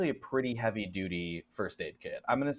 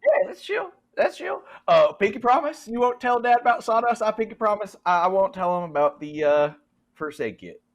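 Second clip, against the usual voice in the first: put-on Southern accent; 10 semitones higher, 7 dB louder than usual. GM voicing Jed, Southern.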